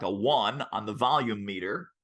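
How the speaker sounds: normal talking voice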